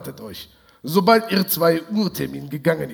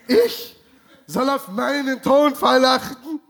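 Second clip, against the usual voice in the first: much higher, incredulous outrage; outraged, higher pitch; 5 semitones higher than usual. Acted. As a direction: repeat it, climbing higher in fury. Kommissar empört, lauter. (noch höher, fassungslos empört)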